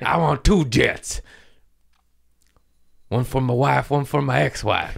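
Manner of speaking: mock rich guy. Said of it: "I get there".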